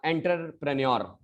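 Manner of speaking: "एंटरप्रेन्योर" as enter-pre-nyor; common pronunciation. Shown as a demonstration. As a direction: begin "एंटरप्रेन्योर" like the word enter. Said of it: "जैसे हम लोग बोलते हैं".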